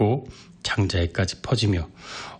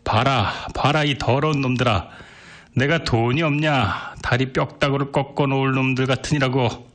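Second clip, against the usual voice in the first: put-on higher, heated drunken rant; angrier; 4 semitones higher than usual. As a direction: curse them all out. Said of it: "더욱 성을 내며".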